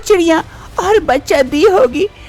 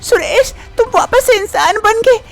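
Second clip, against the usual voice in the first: joyful, higher-pitched call; delighted at seeing him human again; happy; 3 semitones higher than usual. Acted. Wife sees her husband human again, overjoyed. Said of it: "काफी खुश हो जाती है".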